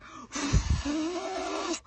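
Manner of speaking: noisy demonstrative breath for blowing out flames; acted big breath. Showing how she blew out the fire, acted big breath. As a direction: gasp in, ready to blow. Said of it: "I blew it out".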